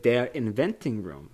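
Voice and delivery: lightly imitated German accent; Wonka. Quoting how Wonka finishes, light German accent. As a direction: give it a touch of German. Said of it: "in his very German accent".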